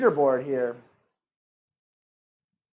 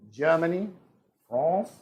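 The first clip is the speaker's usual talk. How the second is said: lightly attempted British accent; half-hearted British voice; bad British accent. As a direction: try a not very good British accent. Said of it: "That's not a good British accent".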